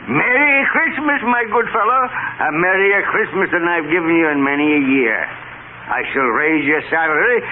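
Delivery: high, bright and jubilant; joyful. Acted. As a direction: burst with Christmas joy. Joyful reformed Scrooge.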